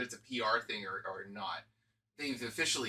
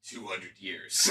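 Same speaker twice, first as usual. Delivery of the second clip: lower, shouted verdict through laughter; mock judge's sentence; 5 semitones lower, much slower than usual. Showing how sentencing would go, mock-stern. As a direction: call out the penalty. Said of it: "that's actually how it would go".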